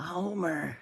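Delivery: slow, lightly voiced Marge; Marge Simpson impression. Host turns Gunko's line into a Marge Simpson bit, lightly voiced. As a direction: worry it out like Marge to Homer. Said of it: "I'm Julie Kavner".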